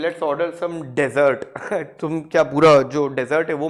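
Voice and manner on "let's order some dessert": dessert said as DEZ-ert like the sandy desert, slowly; wrong stress. Shown as a demonstration. Teacher shows the mistake students must avoid. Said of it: "ये नहीं बोल सकते".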